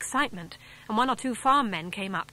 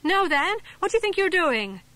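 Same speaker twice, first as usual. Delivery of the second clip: much higher, louder furious yell; angry yell; 10 semitones higher, 6 dB louder than usual. Acted. Sid yelling at Dick for snatching the head, angry. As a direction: yell at the boy who grabbed it. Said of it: "Sid gave an angry yell".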